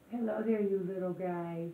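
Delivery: high, loud cooing. Real, not acted. New mama greets the kitten with loud high cooing.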